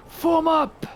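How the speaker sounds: high, loud battlefield shout; shouted command. Acted. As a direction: shout an order to the troops. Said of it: "I probably would shout".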